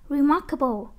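"Remarkable" with MARK picked out; stress on second syllable. Shown as a demonstration. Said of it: "là nhấn âm hai".

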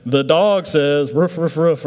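slow toy-announcer voice with mock barks; preacher mimics the spinning toy's dog call, drawn out; talking toy. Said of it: "And you pull it again".

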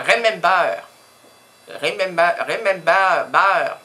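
"remember" repeated loudly, last syllable like "beurre"; French-style English. Shown as a demonstration. Répète le mot pour les Français. (« remember » martelé à la française)

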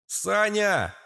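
high alarmed cry; a worried geek shouting down the well; anxious yell. A narrator's reading. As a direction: IT guy's frightened cry. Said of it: "полный тревоги вопль айтишника".

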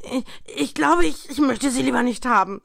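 viel höher, lauter gestottert; ängstlich stotternd. A narrator's reading. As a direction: lehne zitternd ab. (Scrooge lehnt die Geister stotternd ab)

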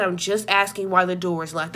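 level, composed retelling of a question; monotone. Retold or imitated. Narrator questions relative about locked door, monotone. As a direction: ask it evenly without raising the voice. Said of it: "I talked very monotone. I wasn't even yelling".

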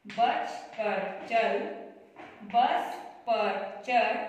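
कक्षा को धीरे और ज़ोर से पढ़कर सुनाना; slow reading drill. Shown as a demonstration. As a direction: read the sentence list out clearly for the class to follow. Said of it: "ऐसे आपको पढ़ना है".

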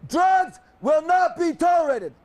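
shouted rule reading; military officer. Real, not acted. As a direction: proclaim the rules like a drill sergeant. Drill instructor reading rules aloud.

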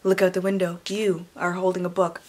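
hushed, mocking read of "you" prose; mock second-person narration. Shown as a demonstration. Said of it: "written in second person".

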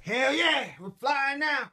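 high, thrilled whoop; excited cheer. Acted. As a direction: whoop like you're taking off. Excited cheer at space intro.

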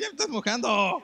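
loud, high, laughing protest; laughing shout. Real, not acted. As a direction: yell while laughing. Sprayed with water.

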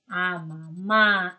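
slow answer. Shown as a demonstration. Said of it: "¿A quién ama papá?".

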